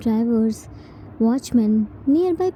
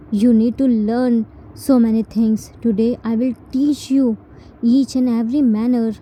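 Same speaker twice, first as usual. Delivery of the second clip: firm, louder big-brother reprimand; stern scolding; 3 dB louder than usual. Acted. Jin reprimanding T in front of people, stern and louder. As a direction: hold the anger in but mean it.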